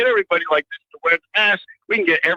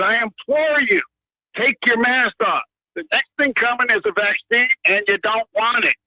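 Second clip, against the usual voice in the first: higher-pitched, emphatic plea without full shouting; retold yell; 5 semitones higher than usual. Caller retelling his outburst to shoppers in the grocery store, retold yell. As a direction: re-enact a raised, insistent public appeal. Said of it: "'cause I yelled. I said".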